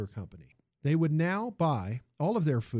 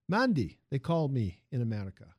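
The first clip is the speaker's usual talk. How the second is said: put-on lively Italian accent, raised pitch. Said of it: "the music of the man's accent".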